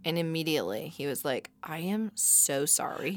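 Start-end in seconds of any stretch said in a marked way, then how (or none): 1.6-3.2 slow, softer, earnest little apology; lightly voiced contrite kid; imitating son's apology. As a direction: draw out each word solemnly. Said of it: "That's how he talks to me".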